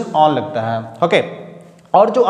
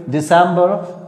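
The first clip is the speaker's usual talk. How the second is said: दिसंबर with "sem" raised, the end rising; pitch up on stress; much slower than usual. Shown as a demonstration. Teacher to class: दिसंबर with a lifted "sem". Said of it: "pitch अपनी high करनी पड़ेगी".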